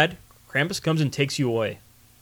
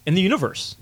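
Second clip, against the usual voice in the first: ringmaster; 4 semitones higher, 7 dB louder than usual. Acted. Podcast intro, circus announcer opening.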